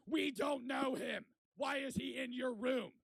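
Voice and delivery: loud, high, stretched-out protest; exasperated shout. Retold or imitated. Scolding friends for inviting a stranger back, exasperated shout. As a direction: hammer out each word in loud disbelief.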